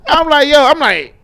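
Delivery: tertawa sambil bercerita; laughing while talking. Real, not acted. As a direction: let the laugh break through the words.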